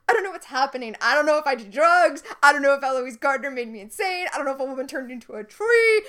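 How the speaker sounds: loud, rushed list of bewildered protests; worked-up character quote. Retold or imitated. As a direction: act out someone loudly losing their grip. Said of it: "Hook is like".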